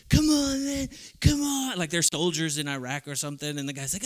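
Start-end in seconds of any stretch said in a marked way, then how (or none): 0.1-1.8 urgent shout. Retold or imitated. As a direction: yell for the tag like it's life or death. Wrestler calling to tag partner.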